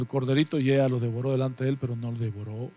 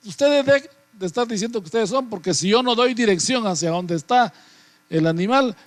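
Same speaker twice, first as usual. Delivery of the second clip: higher, louder angry shout; the eyes yell them down; 5 semitones higher, 3 dB louder than usual. Acted. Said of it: "le gritan". (los ojos gritando, agudo y fuerte)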